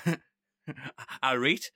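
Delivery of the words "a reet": put-on Geordie greeting; Geordie accent. Imitating a call centre worker, light Geordie accent. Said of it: "it's the Geordie accent".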